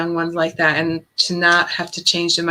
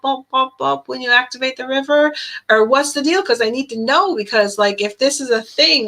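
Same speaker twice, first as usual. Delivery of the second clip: higher, hammed-up curious rant; teasing son; 5 semitones higher than usual. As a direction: pile on the mock questions about fish. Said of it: "And he's like".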